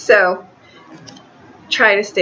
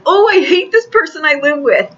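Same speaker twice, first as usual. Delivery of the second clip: mock exasperation; 8 semitones higher than usual. Reader imitating a client fed up with their partner, mock exasperated. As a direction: toss it off like a fed-up roommate, half joking. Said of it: "sometimes it's like".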